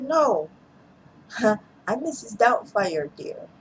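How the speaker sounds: lightly voiced old nanny, half laughing; a hint of a prim old nanny, coy; Mrs Doubtfire voice. Daniel caught out, answering as the nanny in a light put-on voice. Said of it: "the Miss Doubtfire voice".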